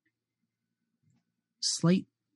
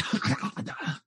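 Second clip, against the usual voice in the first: creepy laugh; 5 semitones higher than usual. Acted. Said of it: "Just going".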